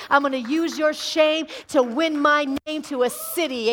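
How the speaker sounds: Jesus promising the woman at the well, in a loud proclamation; Jesus proclaiming. Acted. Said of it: "And Jesus said".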